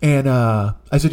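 ordinary talk

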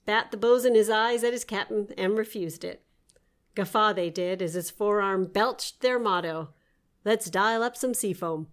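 playful storybook read; story narration. Acted. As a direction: read it like a tall sea tale. Reads her nonsense story aloud.

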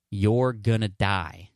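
drawn-out, deliberate retold punchline; slow, blunt delivery. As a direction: stretch each word out slowly for effect. Retold blunt three-word answer.

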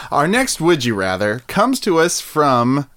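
game show announcer. Pretend.

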